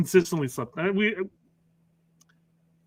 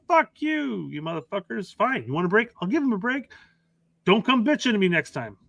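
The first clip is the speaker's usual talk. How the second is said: higher-pitched imitation of exasperation; mock pissed-off coach; 5 semitones higher than usual. Coach giving in to the other coaches, mock pissed. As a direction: grudgingly give in, acting fed up. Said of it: "he's clearly pissed".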